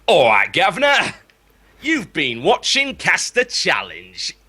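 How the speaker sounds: lightly put-on Cockney accent; cheery Cockney sign-off. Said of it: "sign us off in a Cockney accent".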